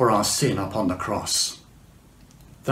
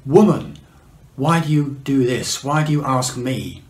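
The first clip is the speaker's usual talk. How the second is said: rebuke; 3 dB louder than usual. Retold or imitated. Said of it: "And Jesus rebuked her".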